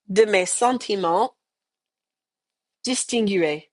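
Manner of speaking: each chunk alone with long pauses; slow line by line. Shown as a demonstration. Teacher tackling a long phrase for students, slow chunks. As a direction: break it into pieces and say it slowly for repetition. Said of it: "let's do this line by line".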